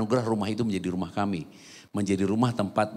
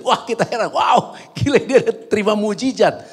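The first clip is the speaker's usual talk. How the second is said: high, louder burst of astonishment; amazed exclamation; 9 semitones higher, 7 dB louder than usual. Retold or imitated. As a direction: retell it with wide-eyed wonder, voice leaping up. Heran melihat orang sakit berjalan. (seruan takjub dengan nada tinggi)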